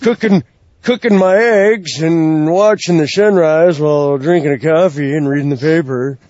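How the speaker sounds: a touch of mock cheer; mock mundane tweet. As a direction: read it like a dull wrestler's tweet, faintly mocking. Mocking a wrestler's mundane tweets.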